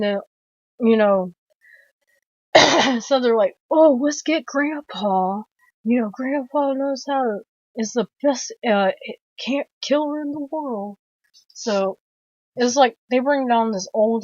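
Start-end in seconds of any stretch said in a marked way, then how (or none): 3.7-11.0 higher put-on eager voice; family member impression. Film fan as family bragging about Grandpa, light put-on voice. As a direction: lightly imitate the movie family, pitched up.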